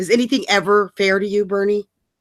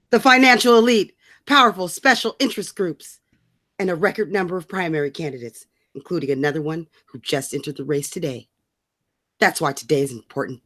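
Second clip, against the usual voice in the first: mock Bernie speech; 4 semitones lower than usual. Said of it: "He goes".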